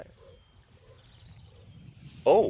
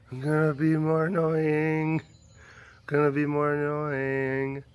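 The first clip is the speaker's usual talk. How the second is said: playful pestering. Acted. Acts out pestering the pet.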